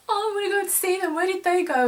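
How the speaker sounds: high, fast mock fretting; imitating freaking out. Mags frantic to follow the men uphill, imitated freak-out. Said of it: "Mags is freaking out".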